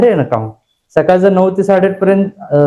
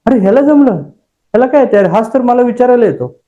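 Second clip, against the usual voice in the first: mock frustrated outburst; 5 semitones higher than usual. Acts out his own envious thought.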